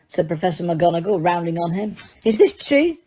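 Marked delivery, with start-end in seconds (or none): 2.2-3.0 high, stern demanding question; stern teacher. A narrator's reading. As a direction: press him like a strict teacher. McGonagall rounding on Harry.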